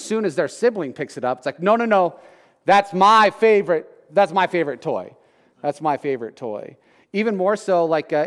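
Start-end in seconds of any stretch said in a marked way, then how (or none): 1.6-6.8 imitating a possessive toddler, a bit louder; lightly voiced child protesting; mock toddler whine. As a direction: act the kid clutching his toy. Toddler voiced grabbing toy.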